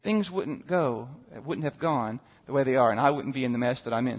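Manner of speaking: frustrated prayer. Retold or imitated. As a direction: cry out at God, then sink. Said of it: "very close to that prayer".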